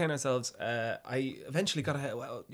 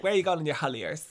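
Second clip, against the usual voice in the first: North Dublin hairdresser; 4 semitones higher, 6 dB louder than usual. Retold or imitated. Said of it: "this North Dublin hairdresser called Shar".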